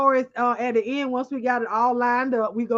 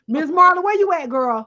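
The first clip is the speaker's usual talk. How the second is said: calling out louder; 4 dB louder than usual. Real, not acted. Calling a chat viewer by name.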